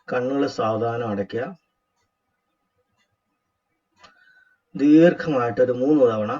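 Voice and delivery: measured instructor's voice with long pauses; guided meditation. Acted. Teacher guiding a group to relax and watch the breath, guided meditation. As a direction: guide them step by step into breath awareness.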